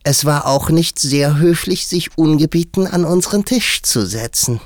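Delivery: very high, loud hare voice; high-pitched quarrelsome animal voice; indignant March Hare. A narrator's reading. March Hare's figure retorts.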